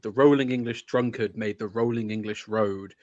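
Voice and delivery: rolling, rhythmic ballad recital; poem recital. Acted. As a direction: let the verse swing along by heart. Recites Chesterton from memory.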